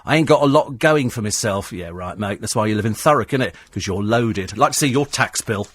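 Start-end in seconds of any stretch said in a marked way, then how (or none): 0.0-1.7 mock whinge of a cab driver; lightly acted moan; moaning London cabbie. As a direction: imitate a self-pitying cabbie, slightly raised. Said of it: "he spent nothing but moaning about it".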